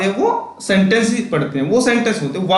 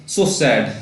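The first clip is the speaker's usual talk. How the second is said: lower, sorrowful sigh of a line; sad exclamation; 6 semitones lower than usual. Shown as a demonstration. Teacher shows how sadness is exclaimed, sorrowful. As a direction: let it sink with sorrow. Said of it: "ऐसे बोलते हैं ना".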